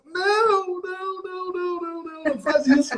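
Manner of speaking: high, insistent string of não; emphatic no. Real, not acted. Host telling listeners never to apologise for their voice, insistent high no. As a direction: wave the idea away hard. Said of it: "host forbids the excuses".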